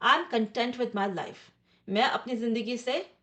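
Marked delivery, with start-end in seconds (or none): 0.0-1.4 slow example sentence. Shown as a demonstration. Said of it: "इसका मतलब है satisfied".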